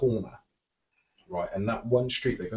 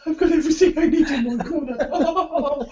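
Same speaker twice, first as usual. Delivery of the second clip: very high, loud, laughing squeal of delight; gleeful squeal; 8 dB louder than usual. Acted. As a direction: squeal it like a kid in a sweet shop. Joking about the fair corner.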